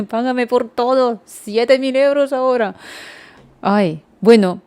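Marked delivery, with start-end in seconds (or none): 0.1-2.8 put-on the shop girl names the price in a higher voice; mock shop girl demand. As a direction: play a pushy shop girl naming the price. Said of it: "ser una chica de Druni y des-, decir".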